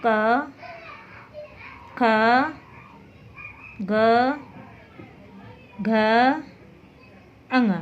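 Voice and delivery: slow, clear recital of क ख ग घ with pauses; consonants recited. Shown as a demonstration. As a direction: say each consonant alone, slowly and clearly. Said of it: "देखिए".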